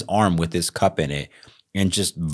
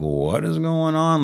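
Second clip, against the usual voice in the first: high, slow bewildered question; alarmed; 11 semitones higher, slower than usual. Retold or imitated. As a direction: sound startled and confused. Startled by sudden screaming.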